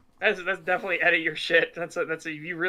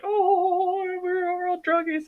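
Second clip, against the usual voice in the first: high, joking tough-guy voice; lightly hammed-up druggie brag; mock druggie voice; 13 semitones higher, slower than usual. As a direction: play at being druggies, high-pitched.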